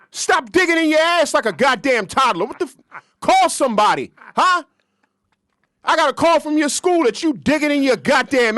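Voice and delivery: mad. Pretend. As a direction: scold him like a furious parent. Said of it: "Now say it mad".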